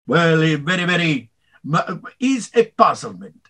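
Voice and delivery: stately, measured kingly pronouncement; Yul Brynner impression. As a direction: speak like the King of Siam. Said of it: "Yul Brynner from The King and I".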